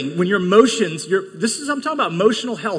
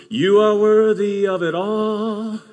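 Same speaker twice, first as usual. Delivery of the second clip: higher, pleading prayer; desperate prayer; 4 semitones higher, 4 dB louder, slower than usual. Retold or imitated. Pastor overwhelmed in his office, pleading prayer. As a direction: cry out to God for help.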